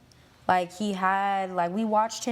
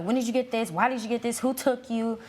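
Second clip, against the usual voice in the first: higher-pitched mock frantic questioning; mildly panicked imitation, pitched up; retold freak-out; 4 semitones higher than usual. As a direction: imitate a parent firing alarmed questions. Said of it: "she freaked out".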